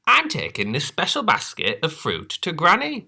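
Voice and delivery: put-on high, bright girl voice; proud little girl. Little Red voice.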